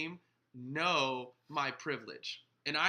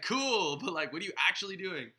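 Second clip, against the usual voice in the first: high, loud "cool", then a quick push; mock challenge; 5 semitones higher, 4 dB louder than usual. Pastor pressing someone who only posts online, challenging. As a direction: play an unconvinced challenger, pitched up. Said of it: "You know, it's like".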